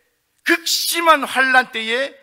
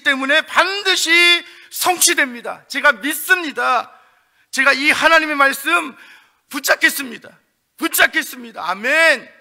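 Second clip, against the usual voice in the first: louder and higher, a firm declaration of belief; fervent faith; 4 semitones higher, 4 dB louder than usual. Acted. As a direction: proclaim your trust boldly. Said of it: "이렇게 대답하며 반응하시겠느냐는". (뜨겁게 믿음을 고백하듯이)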